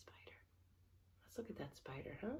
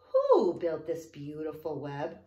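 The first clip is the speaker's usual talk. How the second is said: owl's question; 6 semitones lower, 14 dB louder, slower than usual. A narrator's reading. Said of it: "asked the owl".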